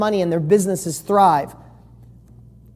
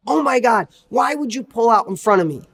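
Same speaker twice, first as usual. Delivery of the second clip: higher, outraged mock yell at the other driver; angry driver; 5 semitones higher than usual. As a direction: play the furious driver who got cut off. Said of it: "One person gets out and it's like".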